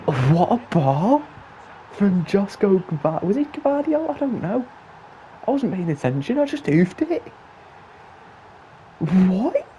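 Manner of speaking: high, loud, thrilled yelling; excited disbelief. Real, not acted. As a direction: shout it like your team just scored a screamer. Stunning goal in the final.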